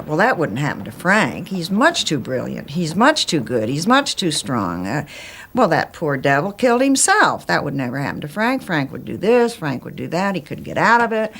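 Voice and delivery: voicing past denial, with lively pitch swings; insistent self-reassurance. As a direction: retell it as insistent self-persuasion, leaning on each reason. Voicing her own past denial.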